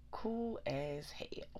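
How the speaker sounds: slow whispered cool as hell; whispering. Real, not acted. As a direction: draw it out in a whisper.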